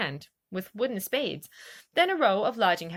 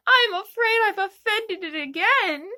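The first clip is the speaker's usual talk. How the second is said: sorrowful; 11 semitones higher, 6 dB louder than usual. A narrator's reading. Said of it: "in a sorrowful tone".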